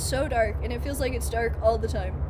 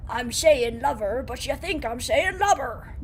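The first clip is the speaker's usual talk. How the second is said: pirate voice, mouthful of food; pirate accent. Pretend. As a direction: lover and lubber sounding the same. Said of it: "in that accent".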